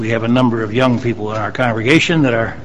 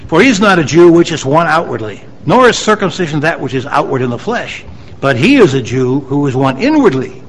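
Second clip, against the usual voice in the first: emphatic Bible reading to a congregation; declaimed scripture. Real, not acted. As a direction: read the verse out firmly, lifting key phrases. Reads scripture aloud to congregation.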